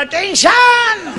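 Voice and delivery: drawn-out comic word. Acted. Boy tells friends, comic drawl.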